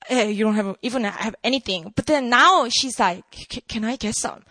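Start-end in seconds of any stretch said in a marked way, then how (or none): 0.1-1.9 low-pitched, mildly dismissive mumble of doubt; skeptical. Retold or imitated. Woman doubting Jesus has anything, skeptical. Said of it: "All skeptical too". 3.3-4.4 soft, stammered mock eagerness; hooked. Woman won over by living water, hooked. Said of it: "She's hooked".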